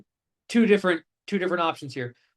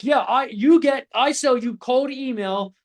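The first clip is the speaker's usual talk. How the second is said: higher, slow fumbling pitch; sounding like an idiot; 4 semitones higher, slower than usual. Retold or imitated. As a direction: stumble through it like a clueless rookie. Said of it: "I sounded like an idiot".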